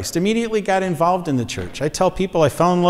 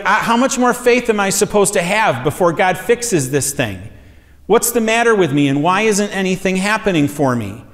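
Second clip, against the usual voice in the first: frustrated; 3 semitones higher than usual. Retold or imitated. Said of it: "And he was frustrated".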